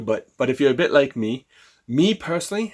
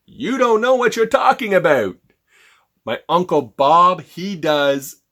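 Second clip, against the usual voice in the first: higher, louder, scoffing client; annoyed client; 5 semitones higher, 5 dB louder, slower than usual. Acted. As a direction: brush the caller off with scorn. Client's objection acted out.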